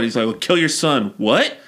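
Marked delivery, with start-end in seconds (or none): 0.2-1.1 offhand command, falling at the end; mildly raised, matter-of-fact acted instruction; casual order. God's first order to Abraham. 1.2-1.6 higher, rising shocked question; incredulous yelp, played for comedy; disbelieving. Abraham reacts to the order.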